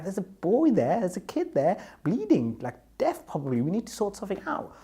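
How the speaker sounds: put-on retelling how he begged the guard to help the bleeding boy, frantic and high; frantic urgency. Pleading urgently about bleeding boy.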